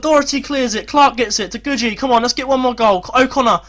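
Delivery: high-pitched, pressing play-by-play; urgent commentary. Real, not acted. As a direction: build tension toward a late chance.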